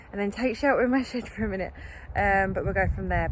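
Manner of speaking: breathless after digging; panting between words; out of breath. Real, not acted. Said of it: "But I'm so out of breath now".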